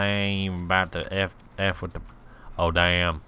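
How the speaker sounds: put-on hillbilly accent. Player declaring love of America, hillbilly accent. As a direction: play a patriotic backwoods American. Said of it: "hillbilly American accent".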